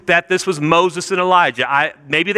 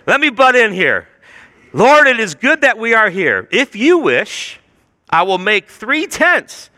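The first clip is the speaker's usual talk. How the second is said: raised, emphatic interjection; eager butting in; 4 semitones higher than usual. Acted. Peter interrupting Jesus, Moses and Elijah, eager butting in. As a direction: cut in as an over-keen Peter, measured and emphatic. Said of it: "He's interrupting Peter. He's interrupting Jesus".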